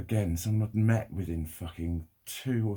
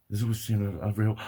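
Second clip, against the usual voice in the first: ordinary talk, nothing marked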